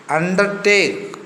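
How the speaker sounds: "undertake" with emphasis on "take"; stress on TAKE. Shown as a demonstration. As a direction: lean on the last part, "take", in "undertake". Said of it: "Stress is given to the".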